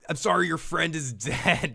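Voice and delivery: slow, deadpan apology, lightly voiced; unemotional Rick. Rick telling Michonne sorry, in a flat, unmoved voice. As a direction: mumble the sorry like it means nothing. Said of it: "He's so unemotional here".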